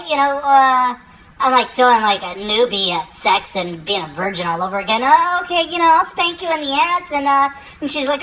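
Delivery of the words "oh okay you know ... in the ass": nervous high voice. Retold or imitated. Acting out a nervous bedroom line.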